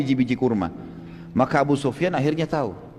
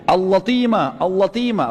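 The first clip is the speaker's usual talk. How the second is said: raised, calling alarm cry; retold alarm cry; 4 semitones higher, slower than usual. Damdam crying attack to the Meccans, raised call. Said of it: "Dia teriak".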